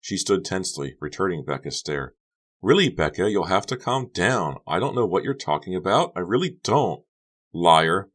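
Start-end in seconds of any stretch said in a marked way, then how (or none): 2.6-7.0 Honey pleading. Acted. Honey voiced, pleading calm. 7.5-8.1 loud accusing liar; accusingly. Acted. Becca accuses Honey, loud single word. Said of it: "said accusingly".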